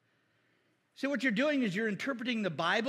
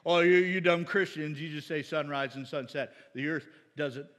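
mock atheist; 8 semitones lower than usual. Preacher imitating atheists who correct dumb Christians, mocking lecture. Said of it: "I love when atheists say that".

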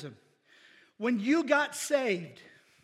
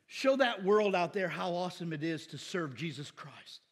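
normal talking voice

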